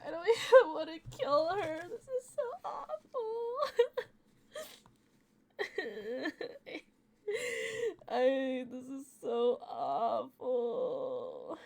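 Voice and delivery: laughing sob with a breaking voice; crying through words. Real, not acted. Gamer crying about having to kill Hiruko. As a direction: push the words out through tears. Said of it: "I'm in so much pain".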